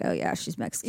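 hushed, breathy aside as the gossiping onlookers; imitating people whispering; mock whisper. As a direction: drop to a secret whisper. People mimicked judging her kids.

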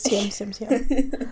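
congested, under the weather; sick voice. Real, not acted. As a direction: talk through a bad cold. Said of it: "'Cause I am so sick".

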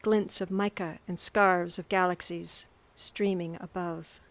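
hushed storytelling read; narrator voice. A narrator's reading. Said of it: "In my narrator voice".

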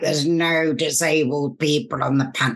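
lightly whiny complaint; complaining voice. Retold or imitated. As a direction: grumble it like a fed-up panel-goer. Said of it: "That's my complaining voice".

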